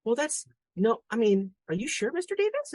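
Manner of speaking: imitated schoolboy, high and insistent; deadpan serious kid. Classmate doubting dad's refusal, imitated earnest persistence. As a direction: press the point in a high child's voice. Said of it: "deadpan serious".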